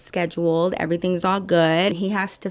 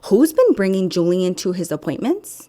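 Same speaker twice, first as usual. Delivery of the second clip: imitating receptionist; 4 dB louder than usual. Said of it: "The speaker does a really good job at impersonations".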